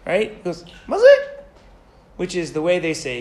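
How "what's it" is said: high, loud snap of a sergeant; sharp sergeant bark. Retold or imitated. Sergeant turning back on the soldier who thanked him, sharp bark. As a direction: stop him cold with a higher, louder bark.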